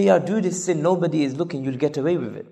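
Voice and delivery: low, hushed, voiced tempter's aside; softly coax, pitch dropped, without truly whispering; mock whisper. Devil tempting someone to sin, in a mock whisper. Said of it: "They will whisper to us and say".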